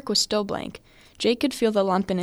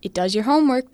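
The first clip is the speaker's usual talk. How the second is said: "homework" stated firmly, a touch louder; 4 semitones higher, 4 dB louder than usual. Acted. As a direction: lay it down firm and sure. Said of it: "the man firmly stated".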